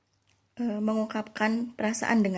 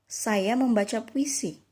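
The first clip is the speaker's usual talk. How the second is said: "Saya membaca puisi" said slowly as a question; question intonation. Shown as a demonstration. Teacher showing the second sentence as a question, "Saya membaca puisi" in slow question intonation. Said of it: "kalimat tanya".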